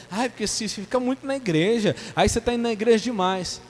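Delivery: high, whiny nagging mother; mock grumble, pitched high; mock complaining. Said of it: "vai ficar reclamando".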